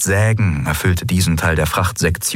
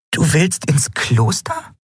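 higher, slow, puzzled; confused Nelen; 9 semitones higher, slower than usual. A narrator's reading. Nelen asks Endriel about the monastery, confused and high. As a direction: ask in disbelief. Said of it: "fragte Nelen verwirrt".

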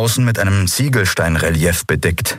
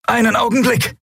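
high, strange reptile voice; lizard creature voice. Acted. Lizard officer voiced in story.

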